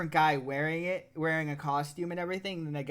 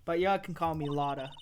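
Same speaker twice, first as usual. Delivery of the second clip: put-on Southern accent; 2 semitones lower than usual. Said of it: "like, Southern bumpkin type".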